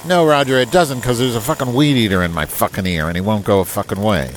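exasperated retort. Real, not acted. Angry retort at the lawnmower.

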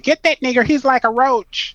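high-pitched retold yell; mock yelling. Retelling the judge's family in the yard, mock yelling.

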